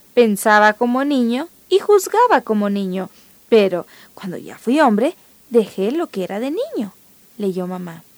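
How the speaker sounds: put-on gentle read-aloud storytelling for kids; story narration. A narrator's reading. Host reading a Bible story to the children, storytelling voice. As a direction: tell the bedtime story evenly, acting out mom and Berta lightly.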